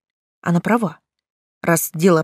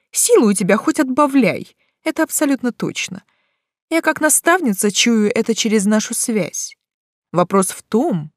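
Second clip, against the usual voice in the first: stern mentor; 3 semitones higher than usual. Acted. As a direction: snap her out of nonsense. Mentor scolds the girl. (строгая наставница)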